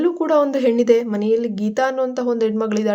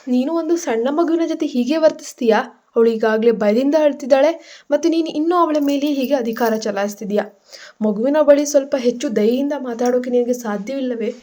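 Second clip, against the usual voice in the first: sharp scolding; 3 semitones higher than usual. Acted. Ashwini scolds the father for frightening the child, pitched-up rebuke. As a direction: tell him off for his harshness, voice pitched up. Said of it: "ಹಠತ್ತಾಗಿ ಗದರಿದಾಗ".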